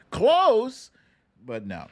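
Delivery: high, loud, drawn-out close; playful high exclamation; teasing close. Real, not acted. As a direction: tease the near miss. Teasing near-miss verdict.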